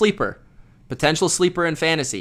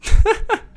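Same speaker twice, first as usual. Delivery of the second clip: short, high-pitched laugh; quick burst of high laughter; 5 dB louder than usual. Real, not acted. Streamer reacts to the sack, high laugh.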